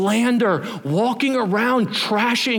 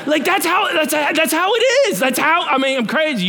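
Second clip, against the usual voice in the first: laughing; 9 semitones higher, 3 dB louder than usual. Real, not acted. Laughing at the story.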